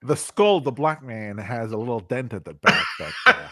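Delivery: mock Southern plantation-owner voice; lightly voiced plantation owner. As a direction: imitate a film plantation owner, hammed up. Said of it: "Django Unchained plantation owner".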